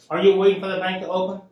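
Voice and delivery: a lightly voiced bossy bank lady, fast; authoritative voice. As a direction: repeat her stern question with mock authority. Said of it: "And in a very authoritative voice".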